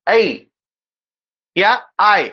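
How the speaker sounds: 'ऐ' then 'आय' as a glide, a then y; teacher showing how 'ऐ' sounds; pronunciation demo. Shown as a demonstration. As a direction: say 'आय' like aa-ee run together. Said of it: "ये उच्चारित करते हैं इसको".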